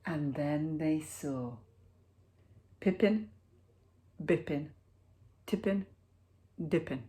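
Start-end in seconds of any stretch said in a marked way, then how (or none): none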